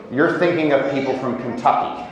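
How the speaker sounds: said through a laugh; joking jab at Kentucky, laughing; laughing comeback. Acted. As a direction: toss it off laughing.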